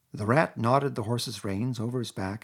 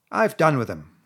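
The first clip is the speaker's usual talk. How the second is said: 1.tags: savage; 3 semitones higher, 8 dB louder than usual. A narrator's reading. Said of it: "said the rat savagely".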